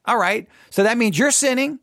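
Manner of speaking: ordinary talk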